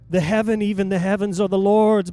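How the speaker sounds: ordinary talk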